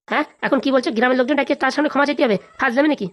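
quarrelling husband refusing to give in; indignant protest. Acted. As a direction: throw the demand back in disbelief. Husband protests demand for public apology.

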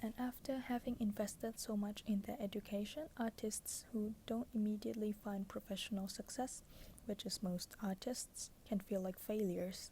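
pillow talk. Acted. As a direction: read it like a bedtime whisper. Reads book passage softly.

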